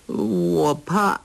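put-on high, slow childlike whine; simple girl crying out. A narrator's reading. Sha Gu complaining she is hungry, high childlike whine. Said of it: "傻姑说".

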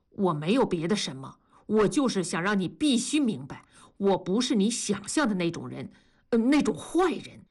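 mildly sincere plea. Acted. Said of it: "同志真诚地说". (真诚恳切地)

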